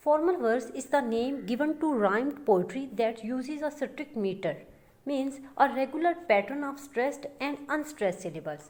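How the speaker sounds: slow, even reading of a definition; slow, deliberate dictation pace; dictating a definition. Shown as a demonstration. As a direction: read it out slowly so students can write it down. Reads the definition out slowly.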